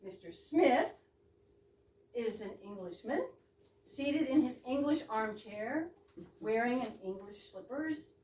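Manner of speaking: mock-formal stage-direction read; a script read with playful weight on English. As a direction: announce the scene as in a script.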